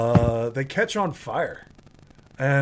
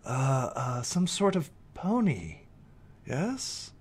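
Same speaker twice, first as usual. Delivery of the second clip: lightly voiced fox, lilting questions; intrigued, with higher swoops in pitch; curious fox; 4 semitones higher than usual. Fox questions an entertaining pony, lightly lilting curiosity. Game master plays curious creature.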